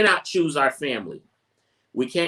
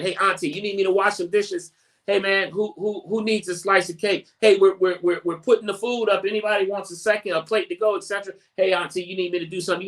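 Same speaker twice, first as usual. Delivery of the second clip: higher, lightly voiced eager helper offering chores; eager helpful relative; 5 semitones higher, faster than usual. Helpful nephew offering auntie to wash dishes, eager and upbeat. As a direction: sound keen to pitch in at the family gathering. Acted offers of help at gathering.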